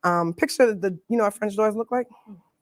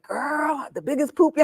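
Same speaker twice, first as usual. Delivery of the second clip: voicing a client; 7 semitones higher, slower than usual. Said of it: "people always call me like".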